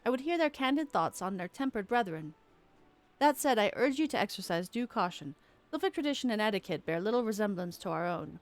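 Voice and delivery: lightly voiced commander, measured and formal; stern commander. Commander addressing the adventurers, formal and measured. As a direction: read it as the officer in charge.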